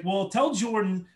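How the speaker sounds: radio host daring the caller to slap himself, laughing; mock host command. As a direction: goad him with a laugh. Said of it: "He's like".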